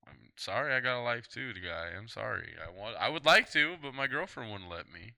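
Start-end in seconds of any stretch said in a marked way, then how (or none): 2.6-3.8 louder, keener insistence; more eager. Real, not acted. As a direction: sell it like you really mean it. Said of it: "you sound like you really wa-, would like to".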